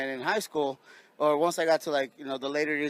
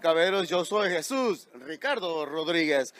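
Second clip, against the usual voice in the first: booming ring announcer intro; big arena announcer call; 3 semitones higher, 12 dB louder, slower than usual. Acted. Ring announcer opens the show.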